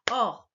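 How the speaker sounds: ORDINATEUR in four separate beats, or-di-na-teur; "Ordinateur" chopped or / di / na / teur, a gap after each; split into syllables. Shown as a demonstration. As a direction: say "Ordinateur" one clapped syllable at a time. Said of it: "c'est quand on frappe des mains".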